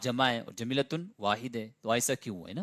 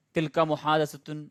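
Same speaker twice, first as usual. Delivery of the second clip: slow Arabic model phrase; 3 semitones higher, 3 dB louder, slower than usual. Shown as a demonstration. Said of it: "ہم یہ بولیں گے صرف".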